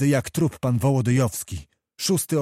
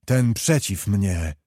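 commanding outcry, the last words slowed and dropped; a prince crying out his ultimatum; hammered-out challenge to the officers; slower than usual. Acted. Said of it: "a po chwili zakrzyknął".

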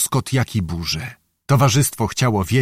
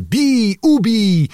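much higher, savage cry to kill; mob cry; 9 semitones higher, much slower than usual. Acted. The mob turning on the prisoners, much higher savage cry. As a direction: shriek for blood like a mob.

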